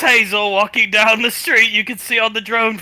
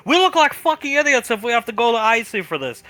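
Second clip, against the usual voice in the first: temper tantrum; 6 semitones higher than usual. Acted. Tommy ranting at Frederick about losing her, frantic. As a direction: rant like the clock is running out.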